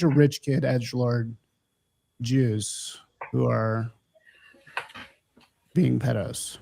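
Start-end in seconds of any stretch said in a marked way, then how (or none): 2.2-6.6 hushed whisper, slowed down. Real, not acted. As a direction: drop to a whisper for it. Lowered voice on touchy word.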